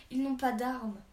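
loud, angry burst; explosive outburst. A narrator's reading. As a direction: explode on the whole phrase. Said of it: "explosa Rotary".

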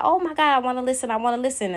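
imitating eager listeners' delight; excited fans. Fans reacting to the podcast mask, excited gushing. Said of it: "People was like".

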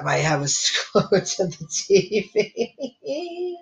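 slow, breaking into laughter; laughing. Real, not acted. Telling viewers about binge watching, laughing. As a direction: laugh through the end of it.

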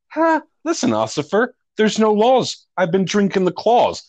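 put-on slurring drunk driver talking to the cop; loose, sloppy drunk. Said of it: "three sheets to the wind".

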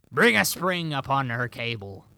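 loud, hammy pirate growl. Shown as a demonstration. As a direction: bark it out like an old sea dog. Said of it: "I'm gonna say it like a pirate".

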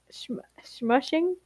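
whispered. Acted. Mocking Concord's rushing line.

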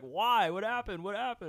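high, urgent repeated what happened; alarmed questions. Retold or imitated. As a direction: ask in a rush of alarm. Friends ask in alarm.

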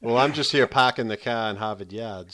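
put-on Boston accent; playful Boston accent impression. Shown as a demonstration. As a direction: drop the R's like a Bostonian. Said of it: "I can't do a Boston accent without swearing".

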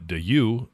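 de you said as "duh-YOU"; sounded-out spelling. Shown as a demonstration. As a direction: sound out de you in two syllables. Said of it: "To me, that sounds like".

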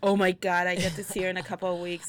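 real thrill, loud and fast; excited burst. Real, not acted. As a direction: blurt out the excitement of a reunion. Excited to see friend soon.

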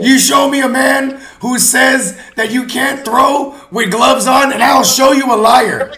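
mock-serious proclamation.

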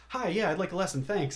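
breezy pupil. Retold or imitated. Repeat customer asking for a piano lesson, mock breezy. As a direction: toss off a well-rehearsed request, mock casual.

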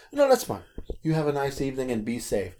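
soft, kindly send-off; quiet, courteous goodbye; retold sweet and nice. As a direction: gently let them off, mildly sweet. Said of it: "you were sweet and nice to them".

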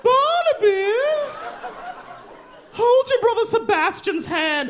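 put-on very high, drawn-out call to a child; sing-song mother calling her kid; posh mom calling. Brooklyn mom calling her son on the playground, very high sing-song. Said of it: "the mom goes".

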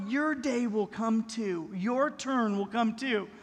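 put-on slow, gentle promise to a little boy; reassuring parent. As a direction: soothe him that his turn will come. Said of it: "We began to tell our kids".

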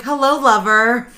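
slow, sultry eighties porn star. Retold or imitated. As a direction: purr it like an old adult film. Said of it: "You sound like an eighties porn star".

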